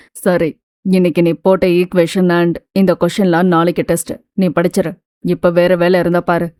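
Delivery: a hint of a gruff man giving orders; male character voice. Male character Vikraman speaking. (லேசாக தாழ்ந்த ஆண் குரல்)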